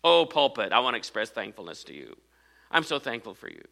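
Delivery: mock praise to an object; sarcastic thanks to the pulpit; mock gushing to a pulpit. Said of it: "I'm not thankful for, to this pulpit".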